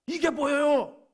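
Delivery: high, loud acted protest; resentful complaint. Workers resenting the master over equal pay, an indignant outburst. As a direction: burst out in mock indignation. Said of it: "막 원망하면서".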